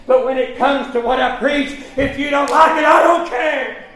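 rising, emphatic pulpit declaration; forceful preaching. Real, not acted. Preacher being honest with congregation about his preaching, forceful preaching. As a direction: build to a defiant declaration.

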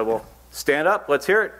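commanding preacher. Retold or imitated. Evangelist demands from pulpit.

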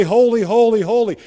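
holy, holy, holy each pressed with weight; emphatic repetition. Retold or imitated. Preacher stressing "holy" for a congregation. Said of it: "trying to stress that word".

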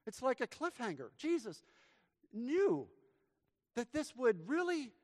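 high-pitched, rising sermon build; preaching. Real, not acted. Preaching climax.

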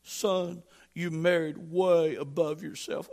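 words squeezed out through laughter; laughing mock scolding. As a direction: tease the young husband while chuckling. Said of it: "He said".

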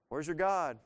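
mildly mocking challenge; mocking taunt. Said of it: "Elijah starts mocking them".

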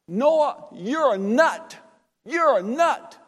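mocking crowd.

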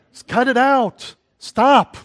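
loud, high-pitched rebuke; scolding command. Real, not acted. Scolding the gloaters.

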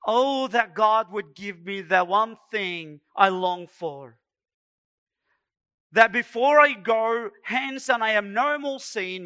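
impassioned sermon quote; John Wesley. Acted. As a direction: declaim it as a fervent longing. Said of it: "give you that quote of John Wesley".

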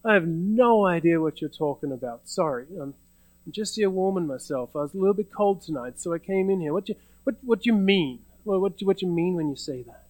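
acted, mildly evasive bewilderment; feigned incomprehension. Peter fending off the servant girl's question, feigned incomprehension. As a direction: play innocent, as if the question makes no sense. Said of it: "He pretends he doesn't even understand the question".

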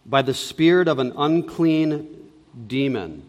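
measured, solemn Bible reading; scripture reading. Acted. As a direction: read the text aloud to the congregation. Reads the Bible passage aloud.

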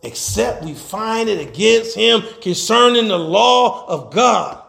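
slow, drawn-out scripture declamation; preaching scripture. Acted. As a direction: stretch the verse out for the congregation.

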